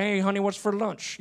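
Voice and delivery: put-on picked-up Joco country accent; imitated Joco accent. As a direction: mimic a Joco country accent coming home. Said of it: "I'll go home with the accent".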